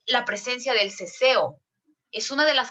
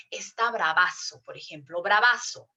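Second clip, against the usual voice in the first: slangy bravazo; 4 semitones lower than usual. Shown as a demonstration. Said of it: "Es un aumentativo".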